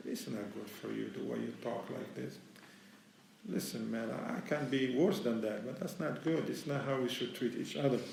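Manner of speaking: low, soft-spoken reproof; gentle correction. Acted. Content soul correcting one who wronged him, gentle correction. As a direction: correct them softly, without provoking.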